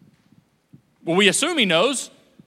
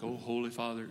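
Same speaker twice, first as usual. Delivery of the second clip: lofty prayer; 8 semitones lower, 12 dB quieter than usual. Retold or imitated. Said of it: "my prayers are always beautiful".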